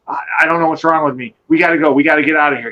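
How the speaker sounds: fast, hurried panicky retelling; imitating panic. Cousin in the woods wanting out, fast mock panic. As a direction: rush the words like a scared cousin. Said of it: "He's all panicking".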